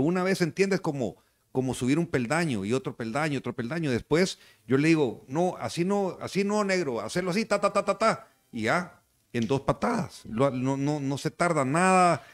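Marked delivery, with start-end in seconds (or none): 5.3-8.3 higher-pitched corrective demo; coaching correction. Shown as a demonstration. Coach showing a trainee how, high-pitched demonstration. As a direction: correct them with a high rhythmic "ta, ta".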